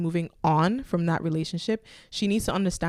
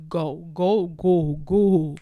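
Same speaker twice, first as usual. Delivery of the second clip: urgent go go; 5 dB louder, much slower than usual. Real, not acted. Urging the writer to flee.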